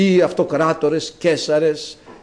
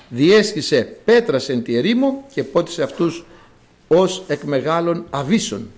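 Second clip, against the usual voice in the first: measured liturgical reading of the psalm; scripture reading; 3 semitones lower than usual. Acted. Priest reads the psalm to the faithful, solemn and measured. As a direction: read the psalm solemnly to the congregation.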